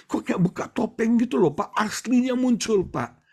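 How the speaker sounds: puzzled husband building to dismay; complaining friend. Retold or imitated. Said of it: "Waktu dia cerita sama saya".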